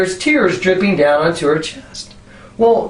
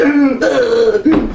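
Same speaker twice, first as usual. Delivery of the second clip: strained, higher-pitched groan; mimed burdened groan; 6 semitones higher than usual. Retold or imitated. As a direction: groan as if weighed down by guilt. Mimics being burdened by guilt.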